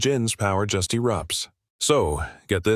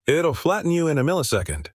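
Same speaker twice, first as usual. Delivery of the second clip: higher-pitched, understated gloat; 6 semitones higher than usual. A narrator's reading. Chad threatens to flatten Jake, gloating. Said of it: "Chad gloats".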